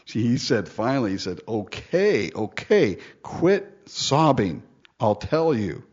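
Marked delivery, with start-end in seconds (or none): 1.5-5.8 worn-down husband giving in; fed up. Acted. Samson finally giving in to his crying wife, acted weary. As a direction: drag out "quit sobbing", tired of it. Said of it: "He was tired of hearing this crying".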